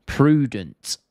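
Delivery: drawn-out royal "Prudent"; exaggerated posh royal pronunciation of "Prudent"; royal accent. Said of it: "They say prudent instead of prudent".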